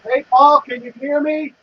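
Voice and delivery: loud, distorted mic test; too hot on the microphone; shouting into the mic. Real, not acted. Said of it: "it sounds like you're shouting".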